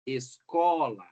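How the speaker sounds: escola slowly, with a strong CO; stress on penultimate syllable. Shown as a demonstration. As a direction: lean on the CO of escola. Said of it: "o acento recai na penúltima sílaba".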